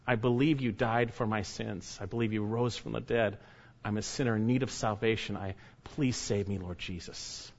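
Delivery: soft, fading humble prayer; sinner's prayer. Pretend. Preacher modelling a humble prayer to Jesus, softly fading. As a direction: pray it quietly, like it's your own.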